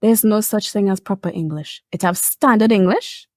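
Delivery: a hint of the stern English teacher; imitating teacher. Teacher correcting the class, mildly stern. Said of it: "he was like".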